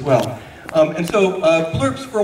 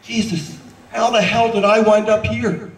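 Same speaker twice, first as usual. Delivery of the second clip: exasperated coach; 5 semitones higher than usual. Acted. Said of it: "Bukowski shakes his head".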